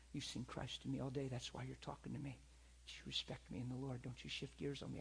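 quiet, intimate correction; tender firm rebuke. Retold or imitated. Pastor holding a hurt woman's face, quiet and firm. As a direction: hold her gaze and set her straight softly. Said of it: "looked her in the eyes".

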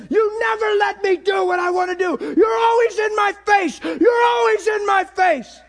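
loud, high shouting, voice straining; retold screaming. Nineteen-year-old screaming at his Bible in rage. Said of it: "Screaming at my Bible".

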